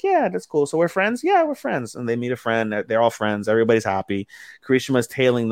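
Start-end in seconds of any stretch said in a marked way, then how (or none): 0.0-1.9 put-on much higher small-girl voice; little girl voice. Voicing shy little girls.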